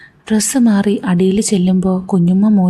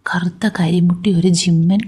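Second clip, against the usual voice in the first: whispered aside. Acted. Narrator's private jab at principal.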